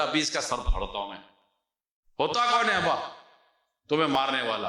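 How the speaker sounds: ready to fight his father; angry threat. Retold or imitated. Youngest son defending mother, angry threat.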